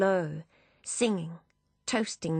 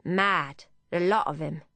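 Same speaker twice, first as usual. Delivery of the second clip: lightly voiced Cockney cabbie scoffing; a hint of Cockney, dismissive; light Cockney driver shaking his head; Cockney accent. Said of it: "in a heavy Cockney accent".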